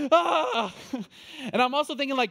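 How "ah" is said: high, loud comic yelp; mock shriek of panic. A husband hamming up his alarm at the news, high loud yelp. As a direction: throw out a high loud "Ah" like a startled man.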